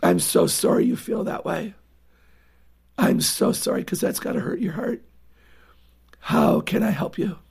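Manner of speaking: gentle consoling with long pauses; tender sympathy. Acted. Parent consoling a child who feels unloved, tender. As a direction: let each comforting phrase sink in gently.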